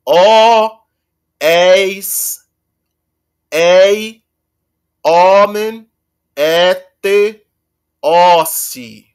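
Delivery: "ó, eis, ei, omen, ete, ossi" slow, each ending separate; subjunctive endings. Shown as a demonstration. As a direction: drill each ending with a pause. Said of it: "E pra dizer o subjuntivo, eu digo". (terminações do subjuntivo, uma por uma)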